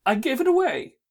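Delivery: mildly snappish confession; understated testy angel; a trifle testy. A narrator's reading. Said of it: "a trifle testy".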